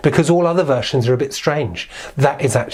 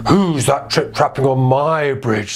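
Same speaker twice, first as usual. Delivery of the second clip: troll voice; slower than usual. Acted. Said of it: "said the troll".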